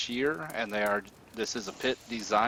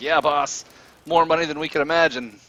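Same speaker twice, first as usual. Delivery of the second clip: very loud, high, chuckling through the words; 5 semitones higher, 9 dB louder than usual. Narrating a scene where a guy leaning over the pit answers his boss, chuckling while talking. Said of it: "he's chuckling".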